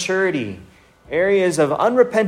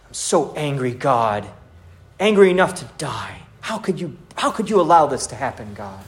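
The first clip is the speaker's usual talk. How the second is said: mildly acted grievance, trailing off at the end; sulky, selfish complaint. Believer blaming God when life gets hard, mildly sulky. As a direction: complain to God in a mild sulk. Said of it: "This sulky, selfish attitude".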